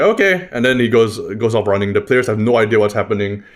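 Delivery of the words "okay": squeaky high-pitched goblin agreeing; high goblin okay. Acted. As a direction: pipe it up like an eager little goblin. Goblin agrees to GM's command.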